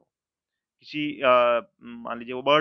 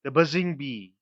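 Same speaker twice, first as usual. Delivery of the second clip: buzzing said with a buzz, stressed and louder; teacher demo of buzzing; 4 dB louder, much slower than usual. Shown as a demonstration. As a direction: lean on buzzing, let it buzz. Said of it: "examples देखिए".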